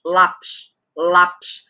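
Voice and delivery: Lápis, first syllable lá carrying the weight; stress on penultimate. Shown as a demonstration. Teacher giving an example, Lápis stressed on lá. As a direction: sound out Lápis with lá strong. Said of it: "A penúltima é a forte".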